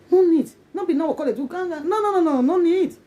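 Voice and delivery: high, loud insistence; emphatic refusal. Real, not acted. Vlogger waving off family worries, high and loud. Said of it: "insisting no need".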